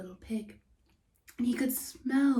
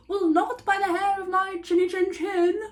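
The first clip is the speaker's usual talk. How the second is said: pig's voice; 7 semitones higher, 5 dB louder than usual. Acted. Second pig refuses wolf.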